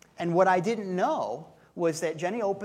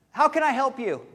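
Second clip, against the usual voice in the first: kind offer; 7 semitones higher, 7 dB louder than usual. Retold or imitated. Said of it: "she didn't say it like, "Hey, buzz off".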